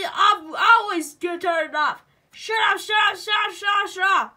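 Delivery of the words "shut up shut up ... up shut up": rapid shouted shut up; repeated yell. Pretend. Yelling at the computer to shut up. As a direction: bark it over and over.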